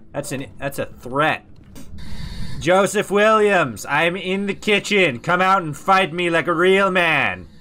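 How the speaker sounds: mock threat. Calling out ghost, mock threat.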